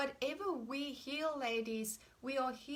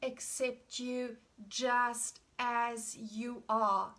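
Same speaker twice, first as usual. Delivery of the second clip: slow tender affirmation; 3 dB louder, slower than usual. Shown as a demonstration. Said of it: "It is an".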